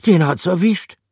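high, loud, blunt; grim character voice. Acted. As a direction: state it bluntly.

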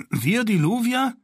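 high, outraged question; indignant. A narrator's reading. Daron indignantly refuses to play the Luvia. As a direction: bristle at the insult. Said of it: "empörte sich Daron".

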